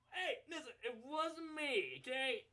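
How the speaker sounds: laughing protest. Acted. Laughing retelling his protest.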